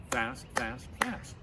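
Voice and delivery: snappy demo of fast; chanting the fast beat for kids to copy; quick. Shown as a demonstration. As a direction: clip the words short to show the beat. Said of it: "the best way to do that is like this".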